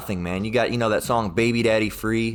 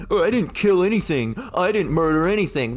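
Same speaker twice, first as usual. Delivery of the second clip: raised-pitch imitation of an indignant denier; mock denial; 7 semitones higher than usual. Accused mother insisting she killed nothing, mock denial. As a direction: mimic someone pleading innocence, pitched up. Mimics accused person denying the killing.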